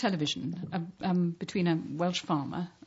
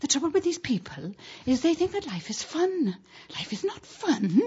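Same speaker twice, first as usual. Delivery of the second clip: dour Welsh farmer; 10 semitones higher than usual. Retold or imitated. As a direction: deliver the farmer's grim verdict, slowing at the end. Retold Welsh farmer punchline.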